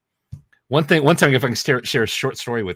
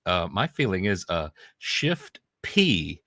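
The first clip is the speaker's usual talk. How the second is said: imitating a stutter; 3 semitones lower, slower than usual. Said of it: "and he says".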